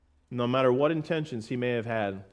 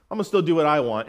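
defiant mock; 4 dB louder, faster than usual. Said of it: "you say".

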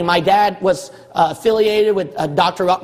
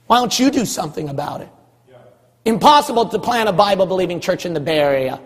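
normal talking voice

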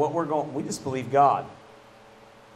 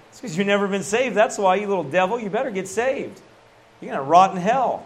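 higher-pitched, emphatic telling-off; scolding rebuke; 6 semitones higher than usual. Retold or imitated. Holy Ghost telling the young man he's lost, scolding. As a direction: scold like a preacher cornering a sinner. Acted stern rebuke revealed to him.

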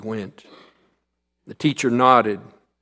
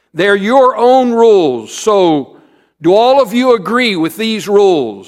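teacher voice; 8 semitones higher, 10 dB louder than usual. Acted. Teacher addressing the class.

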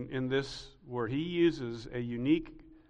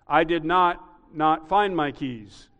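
each not spaced out slowly and louder; slow double not; 4 dB louder, slower than usual. Shown as a demonstration. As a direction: lean on both nots, not and not. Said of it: "That would mean I found my keys".

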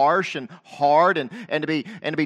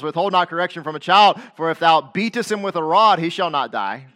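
louder, raised King James reading; scripture reading; 6 dB louder than usual. Acted. Preacher reading King James verse to congregation, proclaiming.

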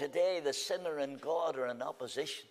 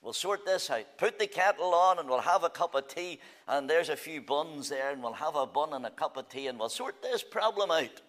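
friendly peacemaker. Retold or imitated. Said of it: "I come along and I say".

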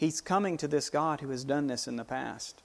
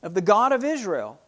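David defying Goliath; 3 semitones higher than usual. Acted. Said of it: "And David said".

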